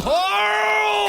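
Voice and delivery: high, long-held mock Southern yell; Southern drawl. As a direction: stretch the name into a hammed-up Southern holler. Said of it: "The perfect Southern drawl".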